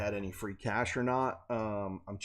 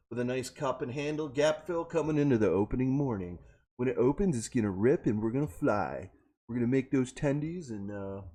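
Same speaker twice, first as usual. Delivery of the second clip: smooth hyped YouTuber host voice; cool YouTuber voice. Acted. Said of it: "that's my cool YouTuber voice".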